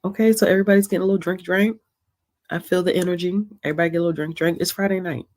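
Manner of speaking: fast hyped call; rally the crowd, quick; excited. Real, not acted. Rallying viewers to drink.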